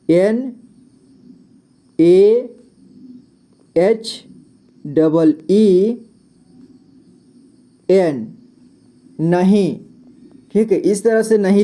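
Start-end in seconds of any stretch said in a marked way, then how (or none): 0.1-8.3 slow spelling. Shown as a demonstration. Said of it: "spelling letters slowly".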